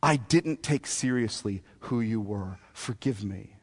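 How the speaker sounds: very soft, low plea for forgiveness; quiet, submissive and low; humbled repentance. Acted. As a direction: sink into a hushed, penitent confession. Job asks forgiveness, submits.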